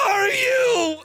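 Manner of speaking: high frightened "are you?"; high mock scream. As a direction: squeal it in sudden fright. Brother screams at once.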